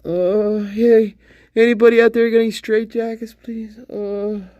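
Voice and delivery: high, fast, pinched comic caller; high-pitched mock request for help; mock calling out. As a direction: pipe up in a high, rushed put-on voice. Same comic call for straitjackets.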